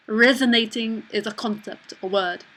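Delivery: lightly put-on French accent. Shown as a demonstration. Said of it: "so we'll do that accent".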